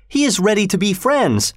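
high, insistent protest at modest volume; shouted protest. A narrator's reading. Kathy defending Heathcliff to her father, upset and insistent. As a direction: push the pitch up, insisting. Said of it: "she shouted".

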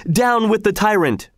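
rally the crowd against the tyrant; shout. A narrator's reading. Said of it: "shouted Walter first".

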